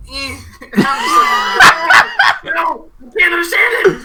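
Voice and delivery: high, loud wail breaking into laughter; giving up, laughing. Acted. Student giving up on his professor's accent, laughing shout. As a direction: abandon the impression in a helpless cackling shout. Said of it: "how you gave up in the middle".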